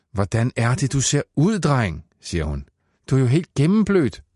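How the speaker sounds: put-on a mother exasperated at her soaked boy; scolding mother.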